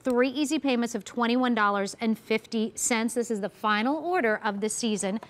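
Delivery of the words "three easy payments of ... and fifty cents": brisk TV sales pitch; home shopping host. Acted. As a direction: rattle off the ordering options.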